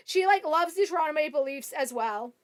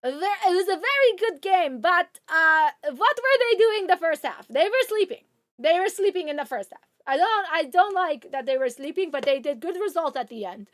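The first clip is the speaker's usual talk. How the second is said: mock Hungarian accent. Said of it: "I can't do a Hungarian accent".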